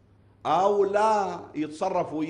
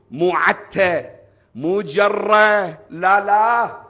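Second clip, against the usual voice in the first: loud, slow, insistent no; emphatic loud refusal; 3 semitones higher, 12 dB louder, much slower than usual. Acted. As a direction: hammer each no, slowly. Preacher rejects harsh dragging. (رفض خطابي عالٍ وبطيء)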